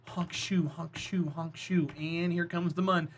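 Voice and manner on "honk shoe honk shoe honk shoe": quiet fake snore sounds; snoring. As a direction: mimic snoring softly. Close your eyes, we're gonna go to sleep again.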